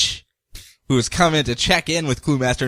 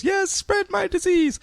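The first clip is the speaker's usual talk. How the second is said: high, slow sinister hiss; a gloating rat villain; creepy villain voice; 3 dB quieter, slower than usual. Retold or imitated. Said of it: "He goes".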